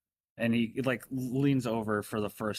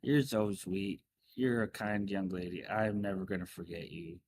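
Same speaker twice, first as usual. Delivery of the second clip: doting lady. Acted. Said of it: "more aggressive than you're used to".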